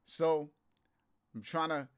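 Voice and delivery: under the weather, tired voice; feeling sick. Real, not acted. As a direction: talk while feeling ill. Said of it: "I'm a bit under the weather today".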